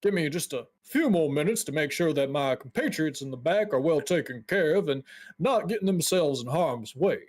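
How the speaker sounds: a hint of a courteous, busy mage; lightly voiced guild dwarf, apologetic. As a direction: politely ask visitors to wait, in character.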